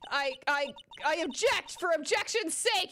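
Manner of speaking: high-pitched, stammered protest; sputtering outrage. Real, not acted. Gamer objects to an unjust plot, sputtering outrage.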